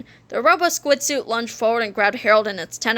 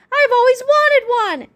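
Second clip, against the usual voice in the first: high, louder, drawn-out delight; exclaimed; 12 semitones higher, 5 dB louder than usual. A narrator's reading. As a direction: gush it slowly and high, thrilled. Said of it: "exclaimed George".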